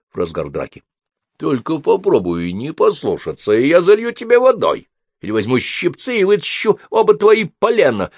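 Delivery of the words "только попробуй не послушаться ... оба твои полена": rising, harsh threat; threatening. A narrator's reading. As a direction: crunch out the threat. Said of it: "добавила она с хрустом". (угрожающе)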